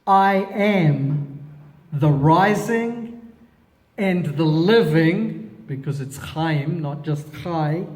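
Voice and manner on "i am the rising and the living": solemn proclamation. Acted. Reading Yeshua's declaration.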